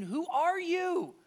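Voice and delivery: high-pitched, insistent questioning; really curious. Acted. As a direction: question him like a baffled, curious crowd. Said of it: "start to get really curious".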